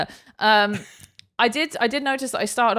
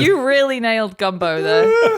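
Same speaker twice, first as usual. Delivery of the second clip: laughing; 4 semitones higher, 4 dB louder than usual. Real, not acted. Laughing at the impression.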